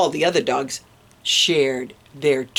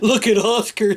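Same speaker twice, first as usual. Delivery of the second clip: mocking cry; 4 semitones higher than usual. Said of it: "they cried".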